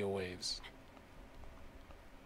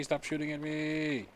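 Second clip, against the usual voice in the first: raised protest again; 3 semitones higher than usual. Real, not acted. Being shot by arrows.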